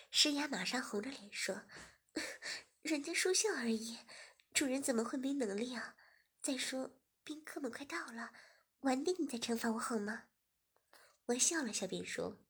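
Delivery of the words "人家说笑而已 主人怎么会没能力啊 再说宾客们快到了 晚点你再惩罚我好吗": whispered, coaxing plea; coy young woman. Acted. Shiya coaxing her master to wait, whispered. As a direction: plead coyly, half whispered.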